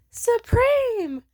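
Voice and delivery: high, loud snap of an order; hard shouted order. Retold or imitated. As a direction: bark it out hard at the window. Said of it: "Hard as fuck".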